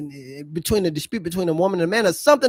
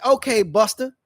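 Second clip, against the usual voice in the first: challenging taunt; 4 semitones higher, 4 dB louder than usual. Retold or imitated. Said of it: "And I said".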